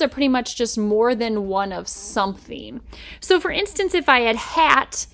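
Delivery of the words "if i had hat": slow hat. Shown as a demonstration. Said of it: "there's hat and hats".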